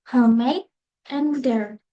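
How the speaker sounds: American-accented word list, one word at a time. Shown as a demonstration. Student presenting word examples for comparison, American accent. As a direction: demonstrate American pronunciation word by word. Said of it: "Next is American".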